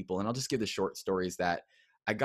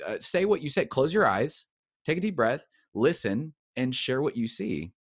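coaxing leader; 4 semitones higher, 3 dB louder than usual. Retold or imitated. Leaders coaching him to prophesy.

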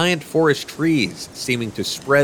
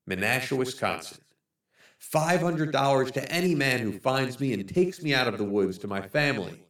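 desperate lost man; 8 dB quieter than usual. Acted. Starving man begging his searchers, soft desperate plea. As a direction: beg quietly, like you might not be found. Narrator voices desperate final note.

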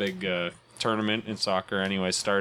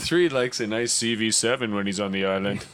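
flirty teasing dating host; faster than usual. Pretend. Dating show host bit.

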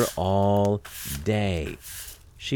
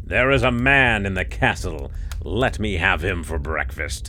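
giant voice. Acted. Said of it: "cried the giant".

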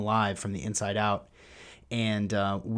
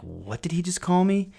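mock baffled listener, pitched up; confused listener; 9 semitones higher, 3 dB louder than usual. Host voicing a puzzled listener, high mock bafflement. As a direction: play a listener thrown by the strange word. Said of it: "some of you are like".

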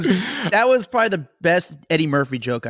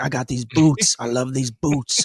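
mock drawl of a famous singer; slower than usual. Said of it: "he speaks like a famous singer".

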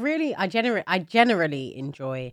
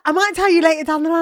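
1 mocking quote; 11 semitones higher, 10 dB louder, faster than usual. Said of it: "and I was like".

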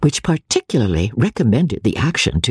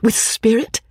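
eager delight; 11 semitones higher than usual. A narrator's reading. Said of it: "cried Marianne, with sparkling eyes".

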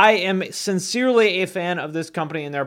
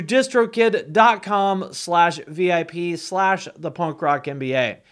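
slow, spelled out letter by letter; slow spelled-out URL; slower than usual. Shown as a demonstration. Host spelling out the sponsor link, slow and deliberate. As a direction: read the web address slowly for listeners.

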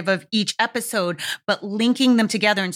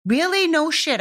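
sarcastic retort; 7 semitones higher than usual. Retold or imitated. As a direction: throw it back with mock disbelief. Scoffing at a patronizing remark.

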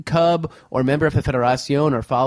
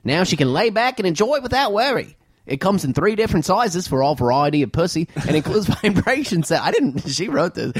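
put-on Australian accent; 2 semitones higher than usual. Host keeps reading the email in an Australian accent. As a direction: keep the Aussie accent on the ad pitch. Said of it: "Keep going".

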